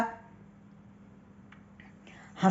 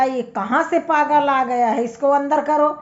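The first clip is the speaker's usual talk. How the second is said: angry judge; 4 semitones higher than usual. Acted. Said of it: "जज को बहुत गुस्सा आई".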